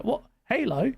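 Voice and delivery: high, mock British accent, ranting; a Tom, Dick or Harry fan grumbling in a British accent; put-on accent. Random gamer ranting that Halo is coming to PlayStation, in a high mock British accent. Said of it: "I don't know why I'm doing that accent".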